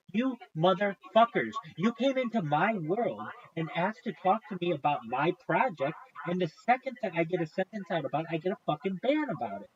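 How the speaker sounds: vent, fed up and indignant; real frustrated rant. Real, not acted. Real rant about unfair bans.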